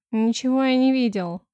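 loud curt bark. Acted. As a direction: snap at her rudely. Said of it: "рявкнул толстяк". (рявкнул)

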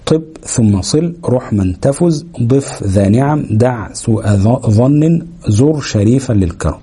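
slow, measured chant of طب ثم صل; قراءة بطيئة مرتلة للبيت; slow recitation of the verse. Shown as a demonstration. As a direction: recite the mnemonic line slowly, word by word. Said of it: "مرموزا إليه في أوائل كلمة هذا البيت".

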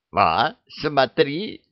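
slow, high, drawn-out showing off; eager sales pitch. Acted. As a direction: hawk it like a market trader. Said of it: "начала она расхваливать товар".

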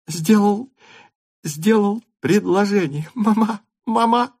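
put-on high girlish cry; calling out in delight; excited cry. A narrator's reading. Natasha shouts her news to her mother, excited. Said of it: "кричала она".

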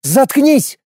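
high, sharp yell; sharp outburst. A narrator's reading. Lorana cutting off Garlin with a sharp yell. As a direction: bite the word off hard. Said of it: "резко вскинулась Лорана".

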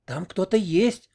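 slow frozen dread; terrified. A narrator's reading. Oksana frozen on the cellar stairs in terror. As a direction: barely dare to speak. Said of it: "вымолвила с ужасом".

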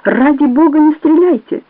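terrified banker begging not to be shot; desperate plea. A narrator's reading. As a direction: beg for your life at gunpoint. Begging at gunpoint.

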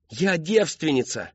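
high, slow emphatic protest; desperate cry. A narrator's reading. Daughter protesting to her father, high desperate cry. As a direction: cry it out, drawing the word.

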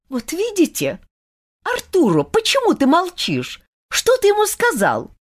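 high, insistent questioning; upset girl interrogating a friend; demanding young woman. A narrator's reading. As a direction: press him for an answer. Olga confronts Arturo.

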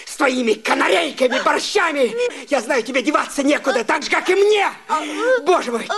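bitter tirade. Acted. Husband berates wife, fast.

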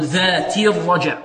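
"ذات" ending in a clean "ti" into "الرجع"; clear kasra. Shown as a demonstration. Teacher telling students to keep the kasra, correct demo. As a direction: keep a full i after the t of "ذات". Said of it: "نحافظ على كسرة التاء".

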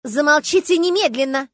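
громко и высоко; оборви насмешников; гневный приказ. Acted. Дама обрывает тинейджеров. (гневный окрик)

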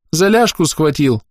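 put-on high, slow sobbing child; a child sobbing out the complaint; sobbing girl voice from the memory. A narrator's reading. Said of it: "донёсся всхлипывающий голос".

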